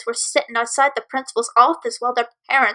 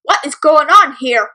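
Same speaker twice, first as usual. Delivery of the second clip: louder, slow demand; stern demand; 6 dB louder than usual. Acted. Principal breaking up the fight, a loud stern demand. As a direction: stop the fight with authority. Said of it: "the principal demanded".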